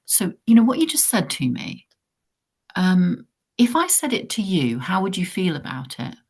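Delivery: put-on coaching a sixteen-year-old with a slow gentle question; gentle question to a teen. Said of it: "you kind of go".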